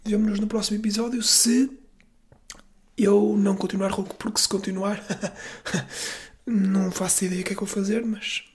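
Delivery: hoarse raspy voice throughout; raccoon. Real, not acted. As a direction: speak with a real hoarse, worn-out voice. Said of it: "esta é uma voz de guaxinim rouco".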